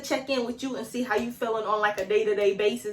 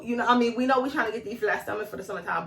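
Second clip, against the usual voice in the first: usual speaking voice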